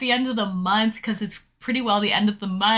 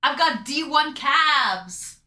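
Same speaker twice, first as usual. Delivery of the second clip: quoting a friend; slower than usual. Retold or imitated. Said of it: "as Wrinkly Beef would say".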